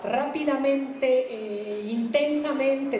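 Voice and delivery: "rápidamente" and "intensamente" drawn out slowly and pressed; slow emphasis. Shown as a demonstration. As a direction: lean on each adverb, stretching it out. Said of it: "si él quería enfatizarlo así". (énfasis lento en "rápidamente" e "intensamente")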